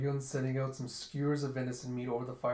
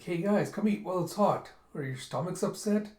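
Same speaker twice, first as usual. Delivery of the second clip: higher, lightly raised call; friendly calling out; 5 semitones higher, 4 dB louder than usual. Acted. Stranger inviting the group to the food, calling out. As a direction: call the others over to eat. Stranger calls the others to eat.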